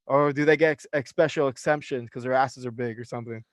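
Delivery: needling the manager with fake helpfulness; calling out the manager at the gym, sarcastic; sarcastic callout. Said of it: "I called him out on it".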